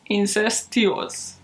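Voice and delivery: "Incestuous" stretched out slowly, syllable by syllable; sounding it out. Real, not acted. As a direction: slowly test out the word "Incestuous". Sounding out a doubtful word.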